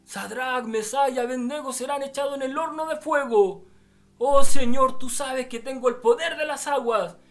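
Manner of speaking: high, shouted plea to the Lord; fervent angel Ajenjo. Retold or imitated. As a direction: cry out with euphoric, urgent fervor. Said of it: "Estaban allí eufóricos, hermanos, estos ángeles".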